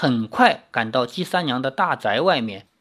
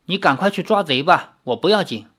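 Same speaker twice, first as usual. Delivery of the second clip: cool and offhand. Acted. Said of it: "林月如淡淡地说".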